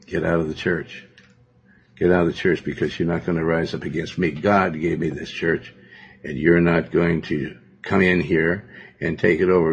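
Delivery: retold calm firmness, slightly subdued. Pastor retelling how he dismisses rebels from the church, calmly. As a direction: put them out calmly, without raising your voice. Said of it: "I just calmly say".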